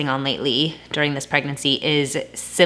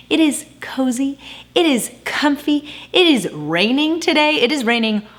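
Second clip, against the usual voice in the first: high, airy, cozy lilt; high cozy sing-song; 9 semitones higher than usual. Real, not acted. Cozy rainy day intro.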